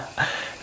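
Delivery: quick airless chuckle; soft breathy laugh. Retold or imitated. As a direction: let a short silent laugh slip out. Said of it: "I'm laughing".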